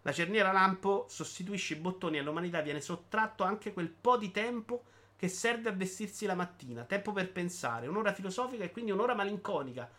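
slightly lifted, emphatic reading voice; animated monologue reading. Acted. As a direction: declaim it like a public proclamation. Legge il monologo di Bitty. (lettura enfatica di un monologo)

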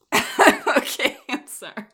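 strained, recovering from choking on tea; choking on a drink. Real, not acted. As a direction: push words out while still choking. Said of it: "the tea went down the wrong pipe".

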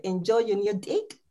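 attempted New Zealand accent, "deck" sounding like dick; clumsy New Zealand accent attempt. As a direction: softly imitate a New Zealand vowel on "deck". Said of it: "imitate the New Zealand accent".

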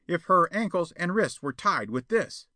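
high-pitched eager plotter; scheming suggestion. A narrator's reading. Perona shows Spawn the cord, scheming. Perona proposes tying Jetta.

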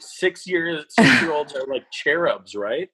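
high-pitched playful incredulity; mock disbelief. Expert teasing a parent about her six-year-old, mock disbelief. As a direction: feign innocent shock, pitched well up.

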